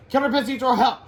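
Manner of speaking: high, loud rallying cry; cartoon kids to the rescue; alarmed kids. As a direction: call out as excited children.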